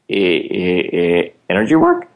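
stammering, unsure of the answer; mock stammer. Telling friends about his class, stammering unsure. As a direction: stutter out the answer like you don't know.

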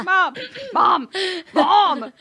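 put-on child calling Mom. Child calling her mother repeatedly.

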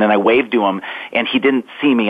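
ordinary talk

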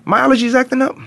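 high, hammed-up confusion; mock surprise at tears. A man at the movies pretends his tears are allergies, high mock surprise. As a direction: play a tough guy baffled by his own tears.

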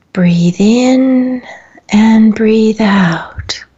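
drawn-out words paced to a slow breath; guided breathing. Acted. Host leading listeners in and out of one breath, guided breathing. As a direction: stretch each phrase so the listener can breathe along.

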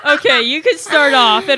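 talking through a laugh. Real, not acted. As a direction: speak while still laughing. Still laughing.

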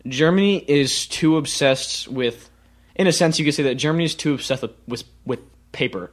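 halting, tripping over words; stuttering. Real, not acted. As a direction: stumble through, restarting. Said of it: "I'm stuttering".

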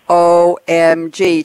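slow, loud and excited; drawn-out O M G. Real, not acted. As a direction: stretch each letter out with delight. Excited over granddaughter's birthday.

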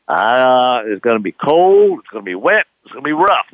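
a hint of a weathered sailor's warning; lightly voiced old captain. Old captain warning the young skipper, mock grim.

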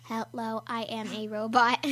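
stiff, even robot voice; toy robot voice. Shown as a demonstration. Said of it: "if you were a robot".

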